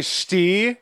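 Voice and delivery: lightly imitated umpire strike call; umpire's strike call. Host retells a kid calling strikes, mild umpire call. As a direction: draw it out as an understated strike call. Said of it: "like, as a strike".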